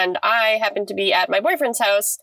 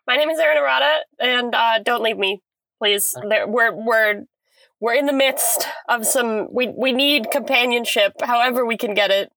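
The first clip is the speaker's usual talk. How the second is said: inside a closet. Real, not acted. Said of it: "you seem to be trapped in the closet".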